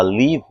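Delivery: "live" as "leevi", like "leave"; mistaken long i. Shown as a demonstration. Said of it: "o som do live é o som de partir".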